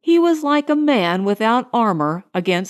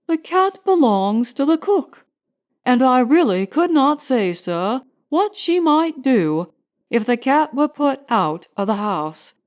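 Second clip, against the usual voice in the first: a servant nervously protecting the cook's cat; anxious butler; 2 semitones higher than usual. Acted. Butler pleads with the gentlemen for the cook's cat, anxious and deferential.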